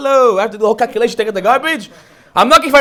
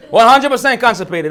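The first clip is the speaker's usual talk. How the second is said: laughing. Real, not acted.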